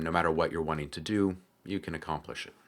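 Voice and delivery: ordinary talk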